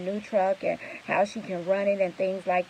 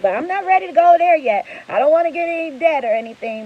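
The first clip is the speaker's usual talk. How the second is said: much higher and louder, eager protest; imitating the client; 9 semitones higher, 6 dB louder, faster than usual. Retelling the client refusing the loan offer, higher and emphatic. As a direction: play the client turning down loans, emphatic. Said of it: "And she's like".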